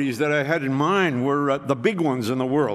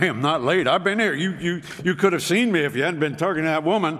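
retelling his own argument with the clerk, indignant and raised; indignant protest; 3 semitones higher than usual. Retold or imitated. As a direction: insist you were on time, riled up. Arguing with the rental clerk.

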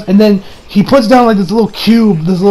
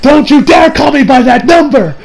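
higher, mock-offended voice; lightly hammed-up warning; indignant rebuke; 7 semitones higher, 4 dB louder than usual. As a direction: act out an offended retort. Acted quote, indignant rebuke.

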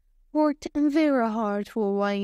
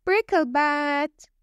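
magic word; 4 semitones higher, slower than usual. Acted. Bob says the magic word.

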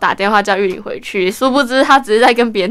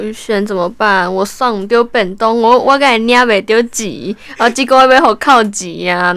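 upset. Retold or imitated. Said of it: "他就很难过跟我说".

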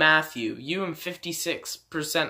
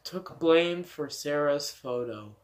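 talking with a mouth full; words round a mouthful; 2 semitones lower, 3 dB quieter, slower than usual. Real, not acted. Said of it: "something in my mouth".

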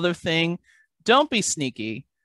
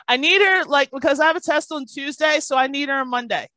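put-on much higher and louder, eager kid; girl begging her mom for the tutor; eager child; 7 semitones higher, 4 dB louder than usual. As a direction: beg mom like an excited kid.

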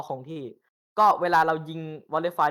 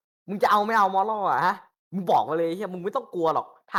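loud, higher mock scolding at teammates; 5 semitones higher, 4 dB louder than usual. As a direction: chew them out to lift morale. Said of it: "ด่าแม่งเลยแบบ".

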